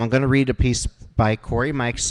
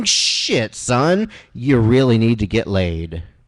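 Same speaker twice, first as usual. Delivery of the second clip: booming voice from the heavens, slower pace; 4 dB louder than usual. A voice from the heavens exclaims during the rain, in a booming Samuel L. Jackson voice. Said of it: "a voice like that of Samuel L. Jackson comes booming from the heavens".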